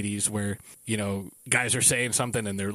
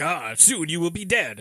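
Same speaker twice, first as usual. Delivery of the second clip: slightly higher, hammy movie threat; mock villain threat; 4 semitones higher than usual. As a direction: imitate a hammy kung fu boast. Quoting a film villain's threat.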